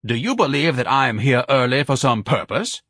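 suspicious, pompous interrogator; grandly affronted; pompous Ignatius. Acted. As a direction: question with haughty suspicion. Voices Ignatius.

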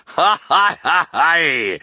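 high, loud ha-ha guffaw; a big captain's belly laugh; hearty laugh. A narrator's reading. Captain laughing with glee at the dinner table. Captain gloats over sugar bowl.

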